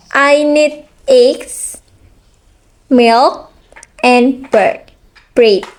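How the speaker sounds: slow list, pitch lifting on "eggs" and "milk"; list intonation. Shown as a demonstration. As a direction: pause after each item, rising until "bread" falls. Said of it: "A list isn't finished".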